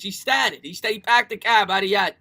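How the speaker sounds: loud attempt at a Boston accent; broad, amateur Bostonian imitation; Dave Gettleman accent. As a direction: put on a Boston accent, dropping the r's. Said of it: "my best attempt at a Dave Gettleman accent".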